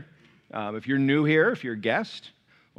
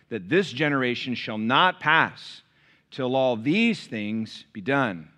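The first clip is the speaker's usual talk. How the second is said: scripture reading; 2 semitones lower than usual. Acted. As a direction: read the verses with weight and pauses. Reads Mark 13 scripture.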